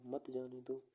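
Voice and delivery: "मत जाने दो" as one unit after a break; मत joined to जाने दो. Shown as a demonstration. Teacher finishing the second meaning, मत grouped with जाने दो. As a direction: run मत straight into जाने दो. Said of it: "फिर कॉमा लगाया".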